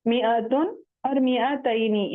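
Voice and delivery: मिआतुन और मिआतैनी with alif silent; slow मिआतुन, मिआतैनी, no long "mee"; short mi. Shown as a demonstration. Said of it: "मीम जेर मी पढ़ेंगे".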